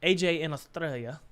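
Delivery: lightly put-on Italian accent; playful, botched accent, vaguely Italian; mock Italian accent. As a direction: try Australian, land in Italian. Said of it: "Italian accent for everything".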